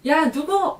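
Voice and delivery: high, sharp mock call of a child's name; mock angry call. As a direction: call the kid out, half-playing the angry mom. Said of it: "막 이러면서 이름 부르고".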